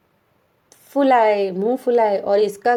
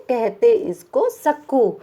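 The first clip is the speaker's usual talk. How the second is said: slow recited verse line; lingering on सक्कू, read slowly like a poem line; poem recitation; slower than usual. Shown as a demonstration. Teacher reading the poem line to children, slowly. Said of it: "कैसे कहते हैं चिढ़ा के".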